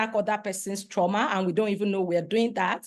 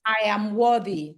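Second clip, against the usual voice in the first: firm affirmation for all to repeat; booming affirmation. Shown as a demonstration. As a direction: declare it proudly to the room. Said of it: "repeat after me".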